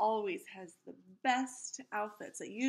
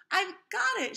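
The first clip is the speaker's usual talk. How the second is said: mock shout; 11 semitones higher, 6 dB louder than usual. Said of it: "shouted Ralphie".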